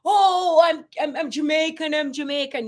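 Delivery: exaggerated high-pitched declaring, easing in volume; mock shouting out. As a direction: pretend to proclaim it to everyone. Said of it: "I don't have to shout it out".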